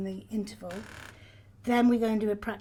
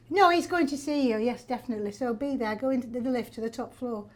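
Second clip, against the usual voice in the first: northern English agent, emphatic then settling; northern English accent. Retold or imitated. Agent reassures doubting actress, northern English accent. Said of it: "I had a northern agent".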